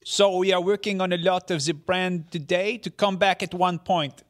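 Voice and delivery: hammed-up French-accented executive; mock French accent as Yves Guillemot. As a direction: read the CEO quote in a thick French accent. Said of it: "You have to do the accent".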